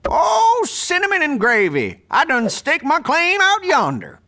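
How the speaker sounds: put-on cackly wheezy old timer; lightly voiced old gold miner; old prospector voice. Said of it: "doing my old prospector character".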